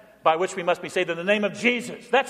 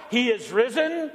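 higher, joyful shout; Easter call; 4 semitones higher than usual. Real, not acted. Preacher to congregation on Easter, ringing shout.

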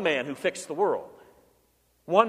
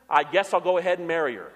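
reluctant shrug; faster than usual. Retold or imitated. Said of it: "The guy said".

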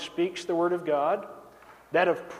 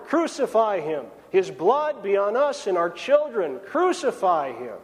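"Crucify him" given a little more push, a restrained retold yell; a retold crowd demanding "Crucify him", a little louder; mild mock crowd yell. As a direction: voice the mob's "Crucify him" louder, without a real shout. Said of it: "They yelled all the louder".

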